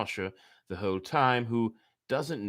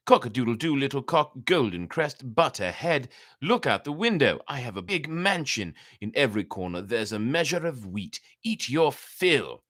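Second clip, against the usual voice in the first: raised, lilting coaxing voice; sweet-talking fox; 4 semitones higher, 4 dB louder than usual. Acted. The fox coaxes the cock with promises of wheat, lightly voiced sweet talk. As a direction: lure him out with honeyed promises. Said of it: "and again said".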